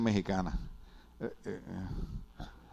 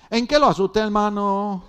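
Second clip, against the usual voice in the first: puzzled hostess; 6 semitones higher, 4 dB louder than usual. Retold or imitated. Hostess voiced in story.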